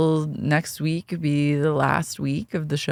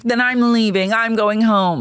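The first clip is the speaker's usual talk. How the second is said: 1 mock threat; 5 semitones higher than usual. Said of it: "where they're like".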